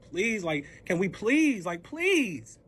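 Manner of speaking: drawn-out, insistent pleases; retold desperate plea; begging. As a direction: plead harder, stretching each please. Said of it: "I'm begging".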